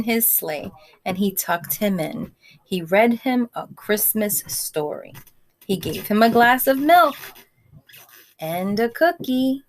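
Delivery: gentle read-aloud voice; storybook reading to a class; story narration. A narrator's reading. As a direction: read it like a bedtime story for children. Reads picture book to kids.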